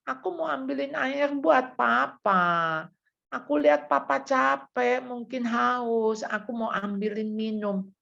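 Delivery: lightly acted tearful explaining, drawn out; tearful child. Child explaining to scolding father, mildly mock-tearful. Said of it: "anak ini sambil nangis".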